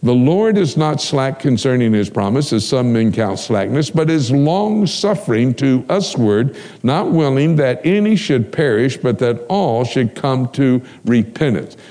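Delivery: scripture reading. Acted. Preacher reading scripture to the congregation, measured. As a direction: read the verse deliberately, like from the pulpit.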